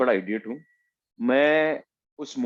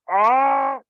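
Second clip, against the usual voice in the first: much higher nonsense syllables in a put-on voice; playful high-pitched gibberish sounds; silly random voices; 13 semitones higher, 4 dB louder, slower than usual. Shown as a demonstration. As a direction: babble in a goofy high accent voice. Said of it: "ऐसी कुछ आवाजें कर रहा हूँ".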